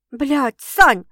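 dismayed, drawn-out, loud name; upset. A narrator's reading. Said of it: "расстроенно протянула сестра". (расстроенно, протяжно)

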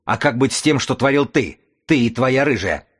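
high, mocking jeer with a bared grin; sneering grin. A narrator's reading. The runner taunts Tim about his own deeds, high and sneering. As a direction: taunt him back, grinning. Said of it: "осклабился бегун".

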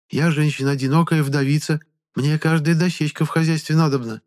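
high, chatty village woman; a gossiping villager fussing over him; high village granny reassuring a stranger; old peasant woman. Acted.

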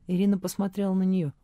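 usual speaking voice

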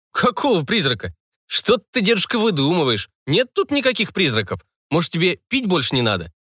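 high, feigned surprise; playful mock puzzlement; mock innocence. A narrator's reading. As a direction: pretend not to see it. Narrator teasing old man.

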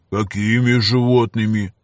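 slow, playing dumb; feigned innocence. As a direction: pretend not to understand. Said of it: "начал наигранно притворяться Гриша".

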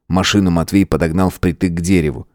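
plain reading voice

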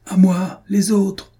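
high, loud rallying yell. A narrator's reading. Captain summoning his men in a fight, loud high yell. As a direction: bellow for backup, pitched right up. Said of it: "hurla le capitaine Jacobus".

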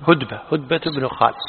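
هدبة said as "hudba", u after h; name pronunciation. Shown as a demonstration. Teacher settling the name's reading, clear هدبة as "hudba". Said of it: "شنو، هدبة ولا هدبة؟".

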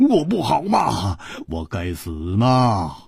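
exaggerated sheepish coaxing; pleading self-reproach. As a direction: blame yourself to soothe someone crying. Frantically apologizing to crying princess.

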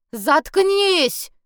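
high, loud angry shout; loud furious shout; yell. A narrator's reading. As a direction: yell him down. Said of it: "заорал Гелик".

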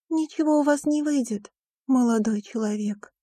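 a lightly voiced stern headmistress. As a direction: put the boy in his place. Donna's voice, high.

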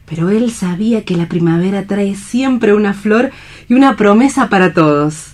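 stage Alicia comforting a despairing man; Alicia, hopeful and tender. Acted. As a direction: speak of spring as a promise. Alicia speaks of spring and hope.

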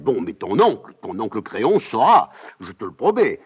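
put-on old nurse loudly teasing and scolding; mocking scolding nurse. Nurse lamenting then threatening.

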